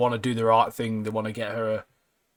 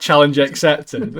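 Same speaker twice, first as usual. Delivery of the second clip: slow, louder, cocky mock bravado; 3 semitones higher, 8 dB louder, slower than usual. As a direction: puff up like a hero taking the dare. Inner voice of Tyler, joked.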